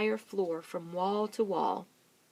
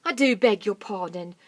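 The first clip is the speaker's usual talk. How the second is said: apology; 9 dB louder than usual. Acted. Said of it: "said Mugglewump".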